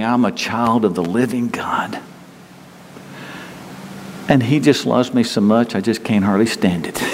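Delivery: whispered confession. Retold or imitated. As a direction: breathe it like a secret joy. Quoting a believer's joyful words.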